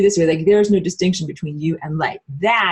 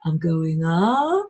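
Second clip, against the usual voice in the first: slow drawn-out rise on "up"; rising slowly; 3 semitones lower, 4 dB quieter, much slower than usual. Shown as a demonstration. Demonstrating a bad energy curve, slow rising drawl. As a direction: stretch "I'm going up" slowly upward. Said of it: "not supposed to go like".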